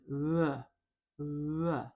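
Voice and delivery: loosen the V in "the" until it nears a W; low-friction V. Shown as a demonstration. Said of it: "there is less friction".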